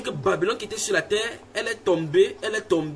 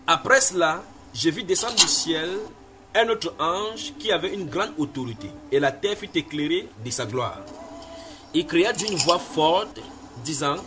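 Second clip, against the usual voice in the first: scripture reading; slower than usual. Acted. Reads scripture aloud.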